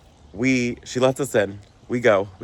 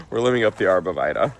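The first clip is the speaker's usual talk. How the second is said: sick voice; faster than usual. Real, not acted. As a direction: voice worn down by a cold. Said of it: "if it sounds like I'm sick".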